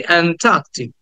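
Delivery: "অ্যান্টার্কটিক" as "aen-TAAK-tik"; lengthened "taa". Shown as a demonstration. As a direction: hold the middle syllable of "অ্যান্টার্কটিক". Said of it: "টাটাকে একটু টেনে বলছি".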